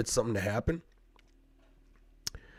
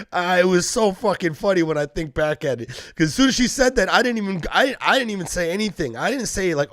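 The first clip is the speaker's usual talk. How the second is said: giddy excitement; 7 semitones higher, 5 dB louder than usual. Real, not acted. Laughing while retelling the story.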